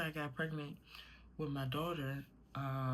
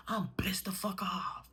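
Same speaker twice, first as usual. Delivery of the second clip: 1 tearful whispered anger; 6 semitones higher than usual. Real, not acted. Furious at God, voice breaking.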